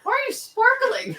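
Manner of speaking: laughing. Acted. Improv employee, laughing.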